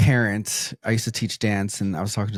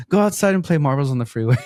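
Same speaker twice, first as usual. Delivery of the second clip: mock-annoyed mom, a bit higher and quick; jokingly; 5 semitones higher, 3 dB louder, faster than usual. Mom shooing her kids out, joking mock annoyance.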